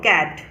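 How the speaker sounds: कैट opening on a crisp K; hard C. Shown as a demonstration. Teacher reading cat for learners, hard-K pronunciation. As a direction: say कैट with K at the start. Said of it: "इसको बोलेंगे क".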